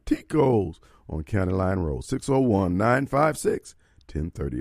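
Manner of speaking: upbeat radio ad read; live ad read. Acted. Radio host pitching Tico's to listeners, upbeat ad read. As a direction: sell the steakhouse to listeners.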